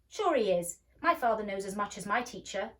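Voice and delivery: loud insistent retort; boy insisting. A narrator's reading. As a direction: stand up for his father. Boy defends his father.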